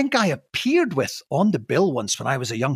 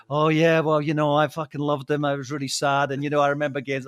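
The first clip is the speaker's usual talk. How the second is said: lightly voiced mock mourning, lower; Stuart Lee; 3 semitones lower than usual. Host mocks a comedian milking a death, lightly voiced mock sadness. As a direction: put on a low, half-hearted show of grief. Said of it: "Stuart Lee would have been milking it".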